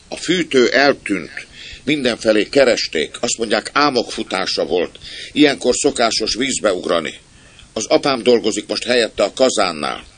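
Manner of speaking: put-on high, loud little boy reporting; child's voice. Stoker's son explaining the disappearance to Jimmy, child's voice. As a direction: tell it like an eager kid. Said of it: "kérdezte egy gyerekhang".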